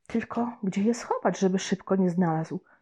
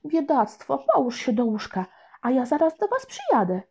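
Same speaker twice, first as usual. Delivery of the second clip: caring grandma; 5 semitones higher than usual. Acted. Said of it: "powiedziała babcia".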